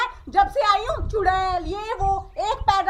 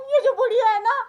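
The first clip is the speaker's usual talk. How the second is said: usual speaking voice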